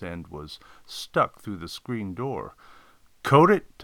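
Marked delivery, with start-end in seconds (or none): 3.2-3.8 sharp raised yell of a name; scolding shout to an assistant. Acted. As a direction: call out loud and high. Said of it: "I yelled".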